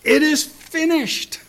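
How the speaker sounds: high, loud, drawn-out roar. Acted. Preacher acts Jesus roaring from the cross, loud roar. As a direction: roar it out slowly, head back. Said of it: "roared out".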